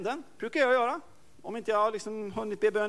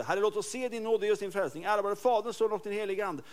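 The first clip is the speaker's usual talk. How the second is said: prayer recital; 3 semitones higher than usual. Retold or imitated. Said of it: "när jag stod bakom Bosse".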